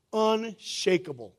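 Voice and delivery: "Unshakable" stretched out slowly with a bit of swagger; with attitude. Shown as a demonstration. Pastor showing the church how to say "Unshakable" with attitude. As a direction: give "Unshakable" some attitude, drawn out. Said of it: "you gotta say it with attitude".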